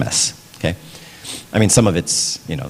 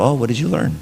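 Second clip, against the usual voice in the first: higher, gently curious question; calm parent; 4 semitones higher than usual. Retold or imitated. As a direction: calmly ask your child, hiding concern. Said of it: "just very calmly go".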